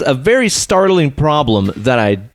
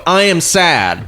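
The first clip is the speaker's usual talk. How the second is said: mock sad announcement; 5 semitones higher, much slower than usual. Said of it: "Do you go".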